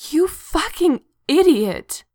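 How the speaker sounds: high, loud, drawn-out outburst; sudden furious yell. A narrator's reading. Chrissy explodes at Claire after the demon leaves, furious yell. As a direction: yell it slowly, wrenched out of the throat. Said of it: "Chrissy suddenly yells".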